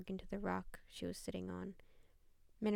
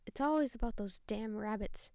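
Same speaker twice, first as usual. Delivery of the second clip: growled; 5 dB louder than usual. Acted. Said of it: "she growled".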